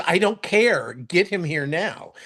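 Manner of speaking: acted-out urgent demand, slowing at the end; mock insistent order. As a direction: imitate her brushing off the objection and demanding action. Retold woman urgently orders doctor fetched.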